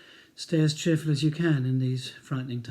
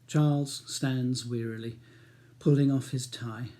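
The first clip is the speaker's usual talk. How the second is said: measured audiobook narration; calm novel reading voice; story narration; 2 semitones lower than usual. A narrator's reading. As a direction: read the story steadily.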